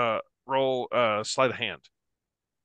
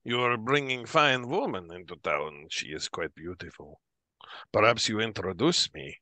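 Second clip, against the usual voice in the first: admiring drinker. Acted. Plays admiring drinker Nikolai.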